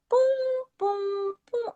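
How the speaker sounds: high, soft, spaced-out "pum" pulses; imitated machine beeps. Imitating the machine as lights blink on and off, machine-like beeps. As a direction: mimic a machine's steady pulse with your voice. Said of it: "era aquele mesmo barulho".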